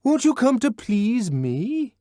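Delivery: high, loud, slow pleading; begging shout through the door; bellowing wheedle. A narrator's reading. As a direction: wheedle at full volume. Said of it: "Bernard bellowingly wheedled".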